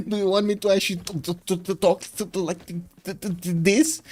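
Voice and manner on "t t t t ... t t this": stuttering as if freezing; mock shivering. Streamer showing chat talk with the window open, mock shivering. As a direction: fake chattering teeth, tripping on every T. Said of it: "I'm gonna need to shiver".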